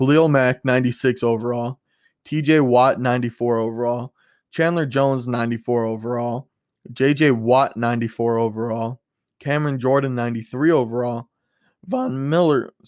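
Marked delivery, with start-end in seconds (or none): 11.9-12.7 voice cracking on a single word. Listing football players' overall ratings, with a voice crack. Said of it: "sorry for that voice crack".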